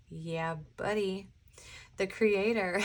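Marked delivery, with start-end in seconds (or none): 0.1-1.3 slow, drawn-out catchphrase; borrowed catchphrase. Retold or imitated. Channeling someone who has passed on, slow drawn-out catchphrase. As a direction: stretch it out like someone's habitual saying. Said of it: "someone coming into this reading that used to say".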